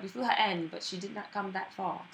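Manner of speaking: put-on practised British accent, easy and chatty. Actress recalling being taken for a Londoner, British accent. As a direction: keep up a natural British accent.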